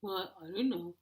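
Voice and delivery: defensive husband impression; mock husband voice. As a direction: plead ignorance like a dopey husband. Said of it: "That's my husband".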